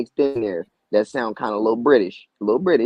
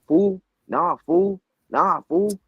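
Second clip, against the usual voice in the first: put-on Mexican LA accent; 8 semitones higher, much slower than usual. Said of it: "He literally sounds like a Mexican".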